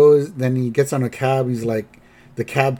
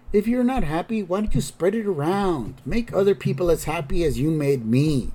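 higher-pitched, gently urging voice; lightly voiced, coaxing ghost; 5 semitones higher than usual. Ghost urging Grandpa to share the money, coaxing. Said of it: "And then B goes".

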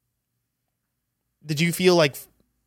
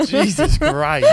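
witch voice; 9 semitones higher, 4 dB louder, much slower than usual. Acted. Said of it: "Did I sound like a witch there".

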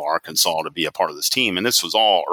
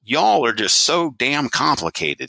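higher-pitched Southern executive impression; Southern accent; 5 semitones higher than usual. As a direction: imitate a Southern speaker, pitched up. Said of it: "in his Southern accent".

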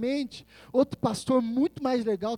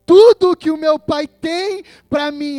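sudden loud, raised preaching burst; impassioned declaration; 5 semitones higher, 14 dB louder than usual. Acted. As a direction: proclaim it with full conviction. Jesus' declaration, preached with force. (declaração inflamada, em voz forte)

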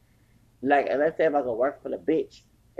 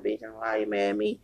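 retold cussing out; 6 semitones higher than usual. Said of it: "I said".

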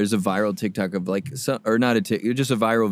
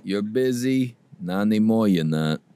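mob guy voice. Pretend. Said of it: "mob voice".

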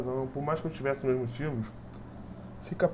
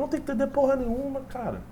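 retold angry retort; 8 semitones higher than usual. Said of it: "Eu falei".

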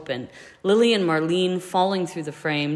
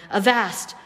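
loud playful battle cry; yelling; 5 semitones higher, 3 dB louder than usual. A narrator's reading. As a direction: bellow it like pirates. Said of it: "both James and Peter yelling".

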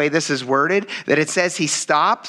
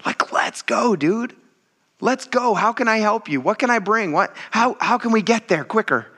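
higher, pumped-up urging; eager encouragement; 5 semitones higher than usual. Retold or imitated. Believer urging the blind men toward Jesus, eager. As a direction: hype up a friend. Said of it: "would have been like".

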